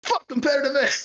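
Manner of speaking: high rowdy jeer; mock jeer. Drunk fan jeering a rival team, high rowdy jeer.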